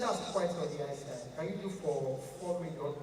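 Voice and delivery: a lightly deep rich big man. Pretend. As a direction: sound like money talking. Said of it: "your voice must deep".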